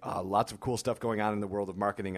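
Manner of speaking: hoarse, voice fading in and out; losing voice. Real, not acted. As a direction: talk through a worn-out voice. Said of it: "I'm sort of losing my voice".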